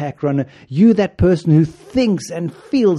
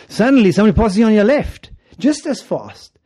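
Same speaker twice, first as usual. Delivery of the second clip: dramatic alarm; 6 semitones higher, 6 dB louder than usual. Pretend. Dramatic race moment.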